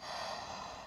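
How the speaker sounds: sharp gasp. Acted. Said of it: "she whispered".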